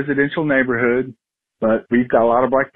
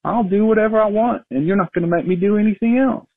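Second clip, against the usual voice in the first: much higher put-on voice for a stubborn bear; defiant bear voice; 8 semitones higher than usual. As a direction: lightly voice a bear that won't budge. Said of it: "it was like".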